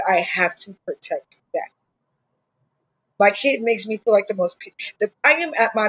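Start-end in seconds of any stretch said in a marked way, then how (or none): 0.1-1.7 real tears catching in the voice; choked up while talking about his son; getting emotional. Real, not acted. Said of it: "Ooh, I'm getting emotional".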